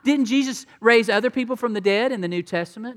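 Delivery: an imagined listener objects, loud and surprised; surprised objection. Retold or imitated. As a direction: throw out the question in disbelief. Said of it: "And you might say".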